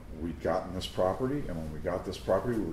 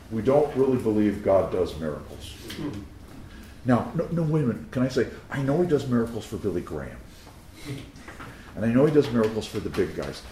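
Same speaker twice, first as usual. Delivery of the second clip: preaching louder; 3 semitones higher, 4 dB louder than usual. Real, not acted. Preacher rises in force.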